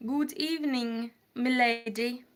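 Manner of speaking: playful British accent, pitched a little up. Shown as a demonstration. Streamer greeting Ramen Queen from England, mock British accent. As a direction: play a courteous Brit with an accent. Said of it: "let me do a British accent".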